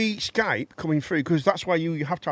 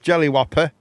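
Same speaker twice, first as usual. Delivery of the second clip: Arnold impression; 4 semitones higher, 7 dB louder than usual. Continues the Arnold voice.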